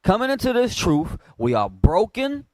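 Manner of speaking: slow, deliberate reading, each word weighed; slow it down so it sinks in; said again slowly. Shown as a demonstration. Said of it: "I'm gonna say it again slow".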